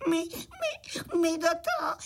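put-on high, whimpering sobbing child voice; tearful, stammering little ones; crying crickets. Little crickets refusing the cart, sobbing in fear. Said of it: "malí cvrčci rozplakali".

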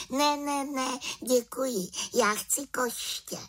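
a cheerful small witch with plans; little witch. Acted. The little witch invites Havran to the village, high and eager.

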